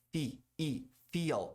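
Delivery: Fi, I, feel built up with a smiling long I. Shown as a demonstration. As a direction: smile through the I of feel. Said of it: "dar um sorrisinho". (feel com sorrisinho no I)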